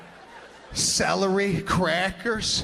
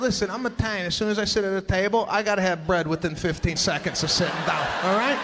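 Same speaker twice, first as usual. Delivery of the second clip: emphatic plea; 3 semitones higher, 5 dB louder than usual. Retold or imitated. Comic pleading for bread.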